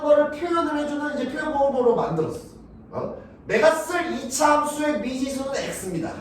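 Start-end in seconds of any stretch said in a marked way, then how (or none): 3.5-6.1 mock formal declaration. Teacher voicing formal declaration.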